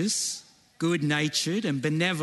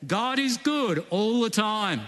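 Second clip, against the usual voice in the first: African accent; 6 semitones higher than usual. Shown as a demonstration. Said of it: "put on your best African accent".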